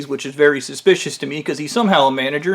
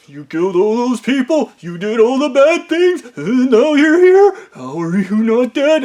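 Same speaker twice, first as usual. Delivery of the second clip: high, loud, frantic yelling; hysterical accusation; 8 semitones higher, 3 dB louder than usual. Retold or imitated. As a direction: shriek in disbelief that he's alive. Fred shocked he is alive.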